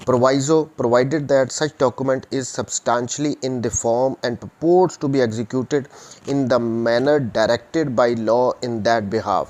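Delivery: slow, measured dictation of the law text; reading statute aloud. Shown as a demonstration. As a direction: read each clause slowly for notes. Lecturer reads statute text aloud. (क़ानून की धारा धीरे-धीरे पढ़कर सुनाना)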